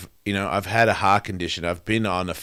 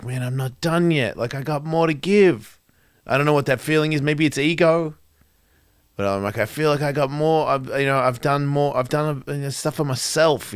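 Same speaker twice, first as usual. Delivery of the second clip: higher, pleading voice; raised, heartfelt urging; earnest plea; 6 semitones higher than usual. Retold or imitated. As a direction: insist you still have more to give. Pleading not done with life.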